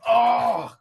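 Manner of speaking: loud acted cry on being hit; loud pained "oh". Knocked down in a fight, loud pained cry. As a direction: cry out from a big punch.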